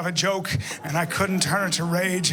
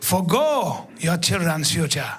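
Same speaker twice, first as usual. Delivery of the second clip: lower, measured explanation; lower, calm African guide lecturing; calm wise guide; 4 semitones lower than usual. Retold or imitated. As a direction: lecture him patiently.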